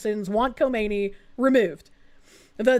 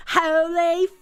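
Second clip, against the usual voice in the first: put-on drawn-out, higher Californian accent, slow and stretched; 6 semitones higher, much slower than usual. Streamer mocking the bystander in the clip, in an exaggerated Californian accent. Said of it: "person in a Californian accent going".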